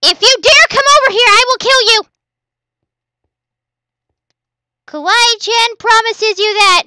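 loud playful menace; hammed-up threat; mock cute threat. Persona threat as Kawaii-chan.

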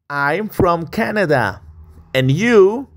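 drawn out and clear, rising on the question; slow teacher model. Shown as a demonstration. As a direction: model it slowly for students to copy.

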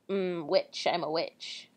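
low, soft witch voice. Shown as a demonstration. Reader hunting for the witch, low soft witch voice. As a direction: test out a witch voice quietly, low. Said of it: "my witch voice".

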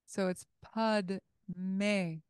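slow Pud Me, syllables separated; 1 syllables spelled out. Shown as a demonstration. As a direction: sound out Pud Me slowly. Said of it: "which is the vowel of E".

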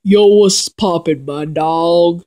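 lightly put-on African American accent, slowed down; a mild, awkward attempt at an African American greeting; barely-there African American accent, drawn out. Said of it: "I'm gonna do an African American voice".

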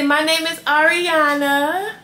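put-on speaking for the baby in a squeaky high voice, slow; high baby voice for daughter.

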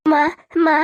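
tearful calling for mother; crying. Acted. Son crying to his mother for his lost wife, crying. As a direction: call out plaintively, word by word. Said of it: "কান্না করছিস কেন?".

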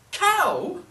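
high, loud call to a cow; sharp, high-pitched summons. Acted. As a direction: holler for the cow's attention. Old woman calls to cow.

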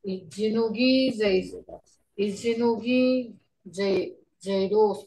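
"Ichinogi, Zai-, Zaidos" with heartfelt emphasis; emphatic stress. Shown as a demonstration. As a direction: lean into "Ichinogi" and "Zaidos" to show how much you care. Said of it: "you put emphasis on that".

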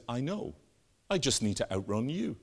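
understated, unbothered calm; very relaxed. Acted. Dutchman to panicking friend as bear approaches, casually relaxed. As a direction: play it cool, lightly acted. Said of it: "The Dutchman's very relaxed".

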